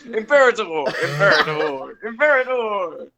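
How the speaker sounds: game announcer voice. Retold or imitated. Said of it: "voice actor from Rome Total War who goes".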